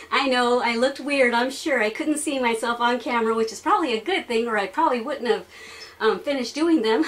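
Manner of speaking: panting after floor exercises; out of breath. Real, not acted. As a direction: shallow breathing, winded. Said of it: "as you can hear, I'm out of breath".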